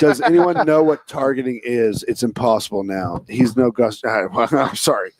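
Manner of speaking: raspy, worn-out hoarse voice. Real, not acted. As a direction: speak through a lost voice. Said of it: "I have no voice".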